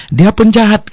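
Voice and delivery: pitched high in mock indignation; imitating a man scolding the preacher; retold angry outburst. Jewish man rebukes the preacher on the plane, in high mock anger. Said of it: "dia marah sekali sama saya".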